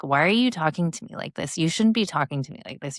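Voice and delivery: fast, mildly scolding parent; half-hearted parental telling-off; mock scolding. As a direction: rattle off a lecture to the teen. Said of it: "normally I'd go in there and be like".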